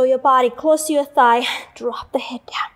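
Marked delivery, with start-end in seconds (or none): 1.7-2.7 soft unvoiced whisper; whispered cue. Real, not acted. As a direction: breathe the words out. Cueing head drop in class.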